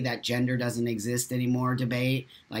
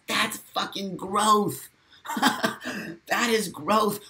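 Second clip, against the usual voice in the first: laughing; 6 semitones higher, slower than usual. Real, not acted. Laughing at chat's growth.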